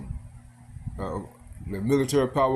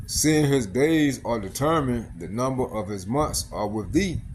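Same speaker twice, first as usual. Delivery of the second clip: slow, measured scripture recitation; scripture reading; slower than usual. Acted. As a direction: read the verse out slowly and deliberately. Reads scripture aloud while preaching.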